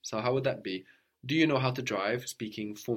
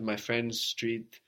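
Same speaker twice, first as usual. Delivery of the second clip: slow teaching model; slower than usual. Shown as a demonstration. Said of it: "So the street of my friend".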